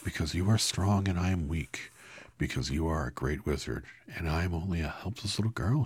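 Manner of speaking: put-on little girl pleading with the great wizard; Dorothy pleading. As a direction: sound small and helpless.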